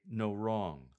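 "No wrong" with a falling lilt; downward lilt. Shown as a demonstration. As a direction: let the tune drop on "No wrong". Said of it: "with a downward lilt".

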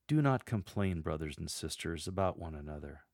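intimate conversational tone, softening after "complain"; compassionate, intimate. Shown as a demonstration. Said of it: "deliver it with an expression of compassion and an intimate and conversational tone".

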